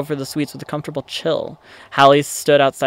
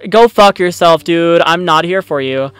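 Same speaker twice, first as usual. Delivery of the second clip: loud annoyed insult; 3 semitones higher, 5 dB louder than usual. Acted. Telling off the remnant head.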